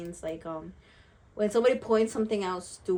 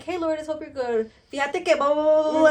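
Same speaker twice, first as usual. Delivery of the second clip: higher, rambling chatter; chatty friend voice; 6 semitones higher, 7 dB louder than usual. Retold or imitated. Mocking a friend's long rambling texts, quick and chatty. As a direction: rattle on endlessly like a chatty texter. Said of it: "this other friend who's like".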